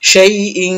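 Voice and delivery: শাই ইং ending in a held nasal hum; ikhfa ghunnah. Shown as a demonstration. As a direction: hold the "ng" of ইং through the nose. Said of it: "ইকফা গুণা করবো".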